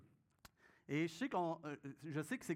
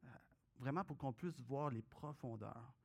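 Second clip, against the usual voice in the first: prayer; 2 semitones lower than usual. Acted. Pastor prays aloud before reading.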